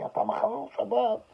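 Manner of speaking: high-pitched mock scolding; retold yelling. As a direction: imitate a scolding without full volume. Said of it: "she yells at me".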